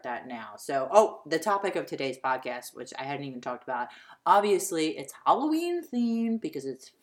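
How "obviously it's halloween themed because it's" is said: excited. Real, not acted. Hyping the Halloween theme.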